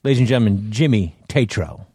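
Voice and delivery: podcast introduction. Shown as a demonstration. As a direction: announce the guest item by item, with pauses. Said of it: "All right, let's introduce".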